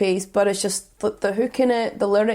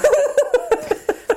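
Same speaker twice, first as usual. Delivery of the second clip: high laugh; 4 dB louder than usual. Real, not acted. Laughs at own take.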